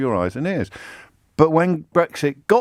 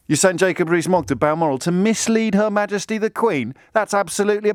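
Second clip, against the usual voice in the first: indignant protest, quickening as it goes; mock outrage; 4 semitones higher than usual. Objector rails at sending Jacob Rees-Mogg to Balmoral, mock outrage. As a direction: build a protest until cut off.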